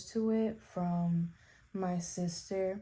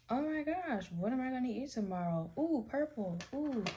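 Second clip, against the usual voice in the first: higher, light, ditzy mock voice; silly airy thoughts voice; 5 semitones higher, 3 dB quieter than usual. Mocking harmless intrusive thoughts, in a high ditzy voice. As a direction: play a carefree, scatterbrained inner voice. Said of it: "Not the intrusive thoughts that are like".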